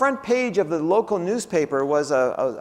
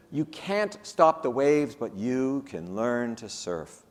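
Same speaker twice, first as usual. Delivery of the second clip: sage quote; 6 semitones lower, 4 dB quieter, slower than usual. Retold or imitated. Quoting a sage saying.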